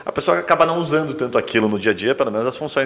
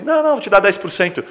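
lightly voiced salesperson, pitched up; higher-pitched imitation of a quick-to-concede seller; eager discounting salesperson; 8 semitones higher than usual. Salesperson giving a customer a discount at once, lightly imitated. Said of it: "vendedor dando desconto assim".

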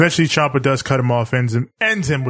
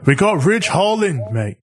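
put-on Yorkshire accent; 5 semitones higher than usual. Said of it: "Sorry for the terrible Yorkshire, uh, accent".

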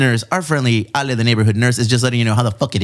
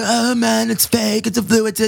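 mocking skeptics; 8 semitones higher than usual. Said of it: "a lot of people that go".

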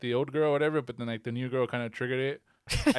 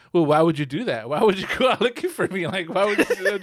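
mocking his attitude; 4 semitones higher, 5 dB louder than usual. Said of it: "His attitude was like".

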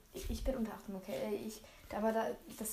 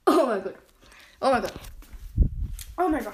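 loud repeated cry at a bitter taste; gagging at bitter drops; disgusted outcry; 9 dB louder than usual. Real, not acted. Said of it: "Es ist jedes Mal bitterer".

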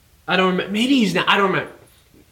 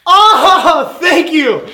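high, loud overjoyed squeal with a laugh; mock gushing thanks; 12 semitones higher, 9 dB louder, much slower than usual. Student mocking his own reply to praise, high gushing squeal. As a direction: gush like a flattered student. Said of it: "And I'm like".

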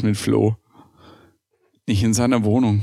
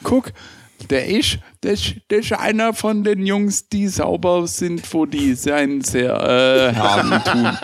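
put-on girly voice; 6 semitones higher than usual. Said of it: "dann wissen halt die Mädels auch so".

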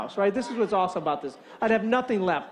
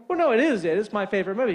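louder, raised protest; insistent protest; 4 dB louder, faster than usual. Retold or imitated. Caller disputes his rejected answer, insistent mock protest. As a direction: push back, sure of your answer. Acted protest to alarm man.

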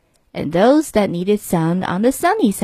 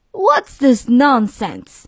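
mild mock roar; 3 semitones higher, much slower than usual. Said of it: "he roared".

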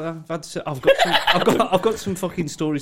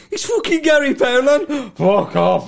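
louder, higher excited yell; excited fan; 10 semitones higher, 5 dB louder than usual. Retold or imitated. Fans spotting Gary Poundland, excited mock yell. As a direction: shout it like a star-struck fan. Fans recognising him, retold.

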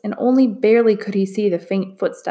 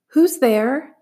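shouted; 6 semitones higher than usual. A narrator's reading. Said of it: "Min Lee shouted".

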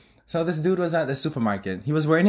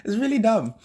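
stifled giggles; 6 semitones higher than usual. Real, not acted. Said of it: "that's why I'm trying not to laugh".

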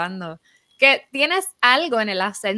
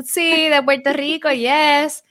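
mock eager reply; 7 semitones higher, 8 dB louder, slower than usual. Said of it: "Y tú".

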